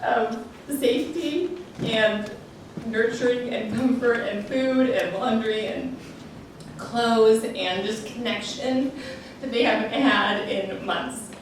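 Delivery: really tearful, halting delivery; choked up. Real, not acted. Daughter listing what mom gives families, choked up. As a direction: push on through real tears, with pauses. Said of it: "I'm a crying mess".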